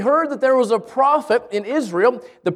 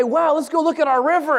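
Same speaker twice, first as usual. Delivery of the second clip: proud local; 7 semitones higher than usual. Retold or imitated. Locals show off their river.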